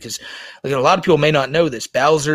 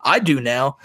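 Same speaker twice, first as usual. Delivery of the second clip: imitating a streamer; 2 semitones higher than usual. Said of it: "being like".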